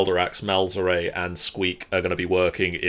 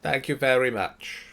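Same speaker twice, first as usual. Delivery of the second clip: Squeak's mimic voice; 5 semitones higher than usual. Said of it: "Squeak will turn to Calderax and say".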